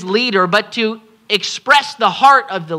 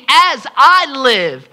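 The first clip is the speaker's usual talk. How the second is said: solemn voice of God; 4 semitones higher, 4 dB louder, much slower than usual. Acted. Preacher voicing God's oath.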